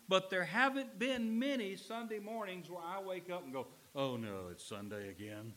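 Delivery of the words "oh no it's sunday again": low, weary groan of dread. Retold or imitated. Preacher mimics churchgoer waking up dreading Sunday, weary groan. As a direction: sag into it like a reluctant churchgoer.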